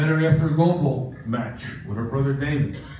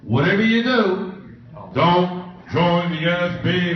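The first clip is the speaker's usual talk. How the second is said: a half-sung ominous warning, slowed; a lightly hammed-up warning voice; mock warning; 3 dB louder, slower than usual. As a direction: intone it like a spooky caution. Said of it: "the advice that we all hear".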